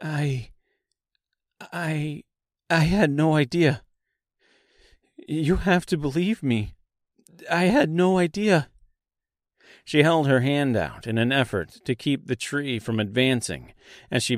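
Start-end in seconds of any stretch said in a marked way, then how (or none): 0.0-8.7 higher, halting start, then insistent; frightened pleading. A narrator's reading. Dorothy begging the tree to believe her, frightened and pleading. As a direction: plead innocence with a stumbling, raised voice.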